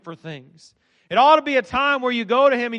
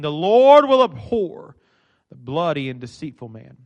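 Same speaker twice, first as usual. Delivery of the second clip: solemn scripture reading; 5 semitones lower than usual. A narrator's reading. Reads the psalm aloud.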